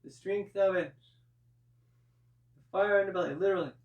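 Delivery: yelling. Real, not acted. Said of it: "I don't know why I'm yelling".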